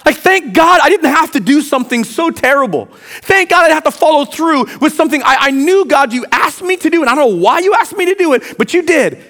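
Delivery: high, pleading outpouring of thanks; fervent relief. Acted. Preacher imagining himself as Abraham thanking God, fervent relief. Acts out his relief at being spared.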